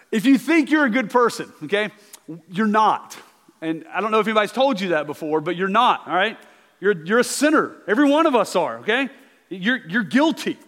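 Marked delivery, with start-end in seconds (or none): none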